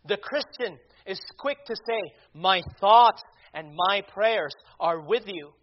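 punchy preacher's delivery with stressed key words; emphatic preaching. Real, not acted. Preacher answers critics of Christians who pray, emphatic preaching. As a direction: preach it with bursts of volume, pausing between phrases.

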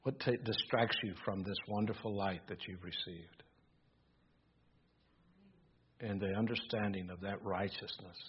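quiet, subdued reflection; talking low. Real, not acted. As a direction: let your voice sink almost out of hearing. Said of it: "I'm talking so low".

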